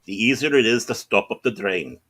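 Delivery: mock-Scottish engineer's brogue; imitated Scottish ship's engineer; Scottish accent. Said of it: "quoting Scotty from Star Trek".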